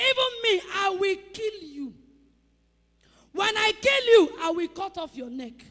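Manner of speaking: put-on a small boy's bold battle cry; defiant shout. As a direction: shout it at Goliath, fearless. David defies Goliath.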